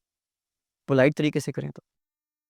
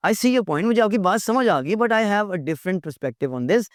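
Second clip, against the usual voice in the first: polite disagreement; 6 semitones higher, slower than usual. Shown as a demonstration. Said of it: "polite बात".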